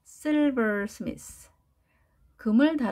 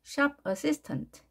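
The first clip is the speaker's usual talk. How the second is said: SHOP slow and stressed; 6 semitones higher, much slower than usual. Shown as a demonstration. Teacher drilling stress for students, SHOP stressed. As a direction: Shop assistant. said slowly, Shop hit hard. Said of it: "강세 위치를 표시해서".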